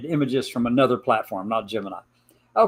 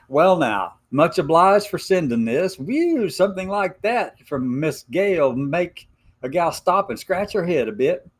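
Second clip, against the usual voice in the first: put-on hillbilly Appalachian accent; 3 semitones higher than usual. Reading Gemini's Appalachian letter aloud in a light Appalachian accent. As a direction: read it like a mountain gal with an Appalachian lilt. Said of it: "hard for me to talk like this".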